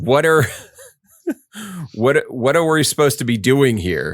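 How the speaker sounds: put-on high-pitched shouting. Describing a scene, acting out a2 shouting at the others. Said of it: "is just shouting at them like".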